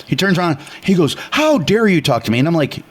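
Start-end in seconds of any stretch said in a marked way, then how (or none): 1.3-2.4 mildly indignant, higher-pitched retort; retold temper flare; retold indignant outburst. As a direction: act mildly affronted, pitch lifted. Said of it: "You're losing your temper".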